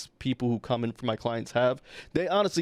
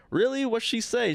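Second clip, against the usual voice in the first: retold surprise; 10 semitones higher than usual. Receptionist asking the building manager what was said, surprised. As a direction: sound caught off guard and curious.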